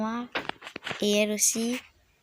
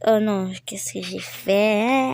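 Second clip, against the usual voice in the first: slow, louder groan of dismay; dismayed exclamation; 7 dB louder, slower than usual. Real, not acted. Gamer realizing her wrong move costs time, dismayed and slow. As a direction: draw it out like you just messed up. Mistake in the game.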